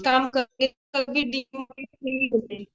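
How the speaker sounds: choppy broken-up call audio; breaking up space radio. Real, not acted. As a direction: voice cutting out over bad network. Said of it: "आपकी ना आवाज पूरी cut गई थी network issue के कारण".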